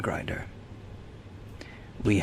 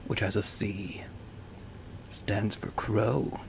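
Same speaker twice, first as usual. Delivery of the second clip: whispering; 6 dB quieter, slower than usual. Pretend. Whispered aside on the shield.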